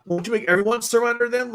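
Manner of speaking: pitched high in disbelief; mock incredulous question. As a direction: ask it like it's obvious, voice up high. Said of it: "I'm like".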